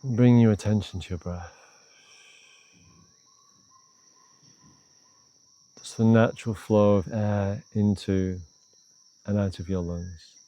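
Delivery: calm, unhurried meditation guidance with long pauses; guided meditation. Real, not acted. Teacher leading a short meditation on tension, calm guided-meditation voice. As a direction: ease the listener inward, leaving space between phrases.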